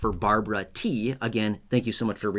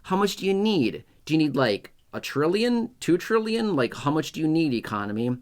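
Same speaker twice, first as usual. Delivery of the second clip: much higher, overly obliging mock voice; eager lawmaker; 4 semitones higher than usual. Lawmakers offering the economy money, high mock eagerness. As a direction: play a lawmaker eager to hand out trillions. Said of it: "Lawmakers say".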